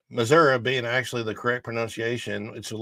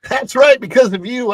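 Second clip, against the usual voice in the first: excited; 12 semitones higher, 10 dB louder than usual. Real, not acted. Excited shout after clip.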